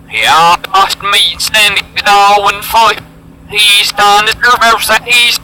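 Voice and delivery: backwards speech. Shown as a demonstration. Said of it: "let's reverse that".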